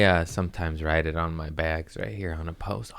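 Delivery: a hushed confession to the mic; whispered aside. Acted. Host confiding his bag-writing habit, whispered. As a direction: whisper it softly as a secret.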